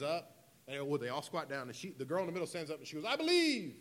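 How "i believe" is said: mock cheerleader yell, way up high; softball cheer. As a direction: imitate a girl shouting a team cheer. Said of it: "they do this little cheer".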